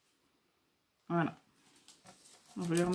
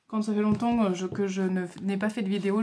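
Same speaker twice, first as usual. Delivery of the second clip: hésiter et reprendre ses mots; bafouillage réel. Real, not acted. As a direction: chercher sa phrase en trébuchant légèrement. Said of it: "je bafouille". (bafouiller un peu, avec des reprises)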